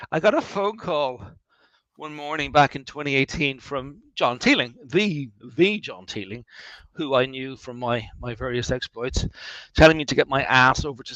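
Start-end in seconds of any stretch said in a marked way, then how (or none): 4.9-6.5 "the, the" said slowly as an emphatic "thee"; stress on THE. Real, not acted. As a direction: draw out each "the" before John Teeling to mark him as the famous one. Emphatic THE before famous name.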